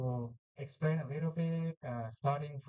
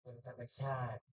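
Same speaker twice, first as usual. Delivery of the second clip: soft spa whisper; 3 semitones lower, 10 dB quieter, much faster than usual. Acted. Guides breathing in meditation.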